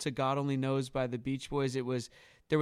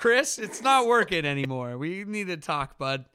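mock breakup talk; 3 semitones higher, 5 dB louder than usual. Director breaking up with Chris, mock gentle. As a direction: break it gently, half joking.

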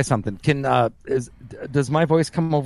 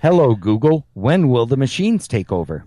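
commanding the smart speaker; 5 dB louder than usual. Shown as a demonstration. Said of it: "Repeat after me".

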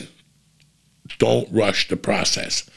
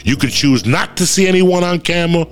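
ad read; 3 semitones higher than usual. Acted. Host reading his BetterHelp sponsor spot, upbeat ad read. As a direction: sell it like a pitchman, punchy.

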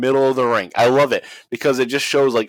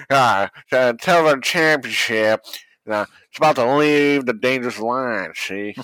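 lightly voiced old-timey coach; a bad old-time football coach; Knute Rockne impression. Mocking the commentator's line, lightly voiced old coach. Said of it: "Knute Rockne, uh, again".

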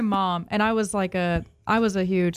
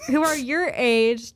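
"who are your age" drawn out slowly; pointed emphasis; 2 semitones higher, slower than usual. Real, not acted. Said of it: "have to say it like that".

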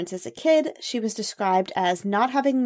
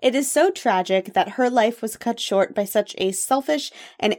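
sincere. Real, not acted. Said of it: "I'm trying to be serious".

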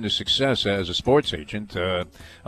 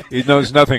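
laughing; 3 semitones higher, 6 dB louder than usual. Real, not acted. Laughs while teasing.

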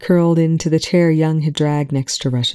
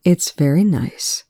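gently admonishing. Acted. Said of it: "Her tone carried a shadow of admonishment".

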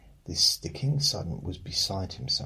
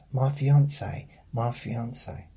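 high, louder mock of a smug coworker on "fiancé"; 6 semitones higher, 7 dB louder than usual. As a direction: show off the word like a smug colleague. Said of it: "I used to work with someone that".

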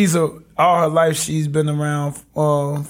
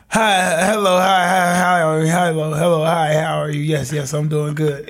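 overly proper phone voice. Retold or imitated. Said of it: "and so I'll be like".

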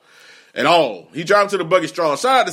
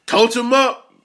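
hype call; 7 semitones higher, slower than usual. Real, not acted. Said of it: "Coach 'em up".

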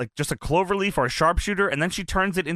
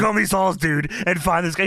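Hogan voice. Retold or imitated. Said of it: "In Hogan voice".

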